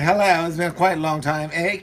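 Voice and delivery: lightly put-on British phone voice; playful mock-British greeting; British accent. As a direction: imitate a British caller. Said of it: "with a British voice".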